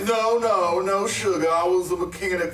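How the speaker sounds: high, loud quick denial; southern mechanic's flustered no; excited protest. Acted. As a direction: jump in to reassure her. Protesting mechanic, pitch jump.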